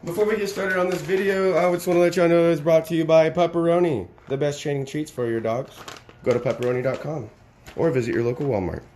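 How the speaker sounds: hammed-up fake sponsorship; mock ad read. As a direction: sell it like a cheesy ad read. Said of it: "I'm just joking. Not a real ad".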